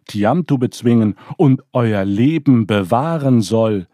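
put-on rally the old god with confident promises; proud young god. Marduk vows to his grandfather Anschar, proud and rousing.

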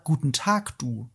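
soft, kind greeting, fading low at the end; charming. Retold or imitated. Quoting the German dub, softly charming. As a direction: greet gently, like a kind old man. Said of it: "was sehr schön und nett und charmant klingt".

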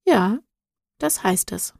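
gentle, softening answer. Acted. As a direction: tell her gently. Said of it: "sagte Noah sanft".

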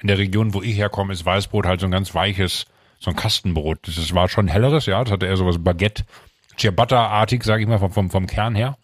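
talking while chewing bread; mouth full. Real, not acted. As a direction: say it through a mouthful. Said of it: "dass du mit vollem Mund so redest".

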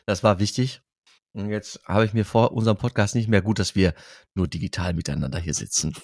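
mint sweet in the mouth; sucking a throat lozenge. Real, not acted. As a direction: speak around a sucked candy. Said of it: "ich riech den Minztrop quasi".

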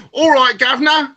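high-pitched mock Cockney greeting; London accent. Joining the joke about London sayings, mock Cockney accent. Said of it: "thing that they say in London".

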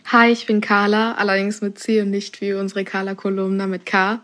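usual speaking voice

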